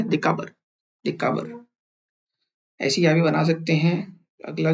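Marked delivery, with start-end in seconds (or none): 0.0-1.7 देकाबर with the final र cut short; soft final R. Shown as a demonstration. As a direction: stop as soon as you reach the र of देकाबर. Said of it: "जब से आप र पे पहुंचेंगे".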